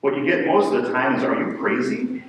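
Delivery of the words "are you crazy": high, slow, drawn-out disbelief; incredulous mock. People reacting to his priesthood calling, mock disbelief. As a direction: stretch out crazy in mock shock.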